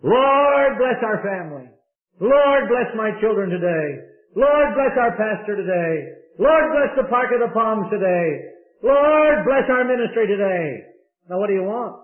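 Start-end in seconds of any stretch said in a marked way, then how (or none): 0.0-10.8 a lightly mocked string of vague prayers; the preacher mimics the congregation's vague prayers; rote generic prayer. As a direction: rattle off the familiar requests. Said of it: "It sounds like us in our modern day praying".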